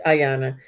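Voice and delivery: "Ayana" opened with an eye sound, not ay; Ayana starting with eye. Shown as a demonstration. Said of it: "thank you for pronouncing that correctly".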